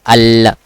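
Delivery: AL with a held, clear l; proper lam. Shown as a demonstration. Teacher showing student the lam, proper lam. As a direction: hold the L of AL. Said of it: "like that".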